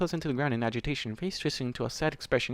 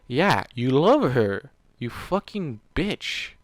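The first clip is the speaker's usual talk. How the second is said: slow, louder, sarcastic sneer; angry jab; 6 dB louder, much slower than usual. Real, not acted. Reader taunting Warden, a slow louder sneer. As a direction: spit it at him slowly.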